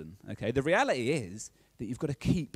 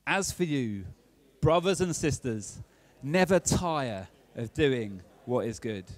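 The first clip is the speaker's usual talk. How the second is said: more passionate verse reading, drawn out at the end; stronger, slower exhortation; slower than usual. Shown as a demonstration. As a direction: read it to your neighbour with more conviction. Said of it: "say that one with more passion".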